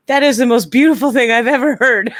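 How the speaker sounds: high, loud, laughing rapture; re-enacted delighted awe; gushing admiration. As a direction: gush as if completely enchanted. Gushing over angry Irish voicemail.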